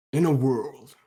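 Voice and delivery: half-started trailer announcer; lightly put-on trailer voiceover; movie trailer voice. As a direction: begin a mock movie-trailer intro. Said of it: "I was gonna do the trailer voice".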